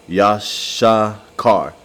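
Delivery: Yashakar stretched very slowly, syllable by syllable; slow Hebrew sounding out. Shown as a demonstration. Teacher slowly sounding out the Hebrew name Yashakar. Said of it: "So, Yashashkar".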